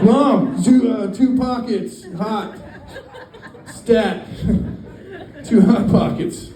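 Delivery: put-on squeaky high kid voice, laughing through it; high whiny kid. Son whining at mom for Hot Pockets, high and squeaky. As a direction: whine it up high like a greedy child.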